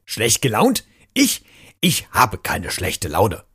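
a mild grumpy mutter, slowing on the denial; mock-offended, then sulky and slow; lightly voiced grouchy denial; grumbling. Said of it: "murrte Jim".

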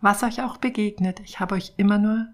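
gentle storytelling read aloud; story narration. A narrator's reading. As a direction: read it like a children's picture book. Reads picture book story aloud.

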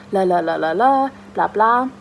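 mock the flatterers lightly; mocking singsong. (spöttischer Singsang)

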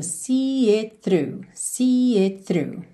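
"See it through" very slow, word by word; careful ending. Shown as a demonstration. Teacher draws attention to the line's ending, slow demonstration. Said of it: "atenção a esse finalzinho".

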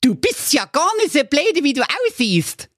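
high cheeky dog voice with grudging praise; approving dog. A narrator's reading. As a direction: hand out a backhanded compliment. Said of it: "sagte der gestiefelte Köter anerkennend".

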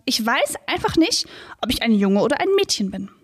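lively read-aloud with lightly voiced animals; children's story reading. A narrator's reading. Reads the children's book aloud. (Kinderbuch vorlesen, Tiere leicht angespielt)

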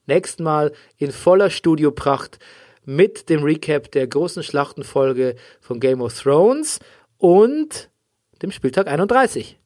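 poor audio quality; muffled, lossy stream sound; low quality stream. Real, not acted. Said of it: "sorry für die Tonqualität".

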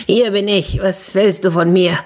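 grumpy little squawker; squawky voice. Acted. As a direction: answer in a light squawk. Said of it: "hörte sie eine quäkende Stimme".

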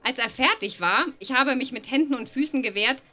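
ordinary talk

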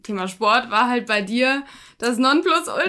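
emphasis landing on "war"; stress on "war". Real, not acted. Guest recalling the host's sporting past, stress on "war". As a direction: lean on the word "war". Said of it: "Die Betonung, die ist, die liegt auf wahr".

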